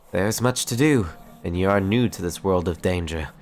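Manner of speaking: lightly voiced earnest ranger; a hint of lofty heroic character voice; noble ranger mentor. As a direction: counsel a newcomer as a formal storybook hero.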